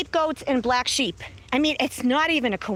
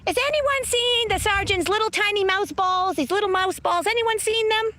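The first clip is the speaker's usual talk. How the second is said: higher, brassy movie-cop taunt; Melissa McCarthy quote; 7 semitones higher than usual. Retold or imitated. Quoting a movie cop mocking the sergeant in a higher voice. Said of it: "She goes".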